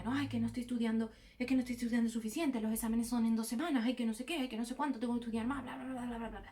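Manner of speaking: rushed, fretful worrying; anxious inner voice. Shown as a demonstration. To her viewers, acting out the anxious student's thoughts, rushed and fretful. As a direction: rattle off the worries, fast. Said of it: "¿Veis la diferencia?".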